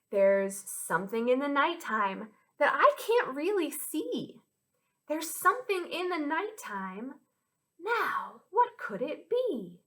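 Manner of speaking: put-on lilting children's rhyme with swooping pitch; rhyme recital. Teacher sharing a nighttime rhyme with children, lilting. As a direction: chant it with playful mystery. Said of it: "this rhyme goes like this".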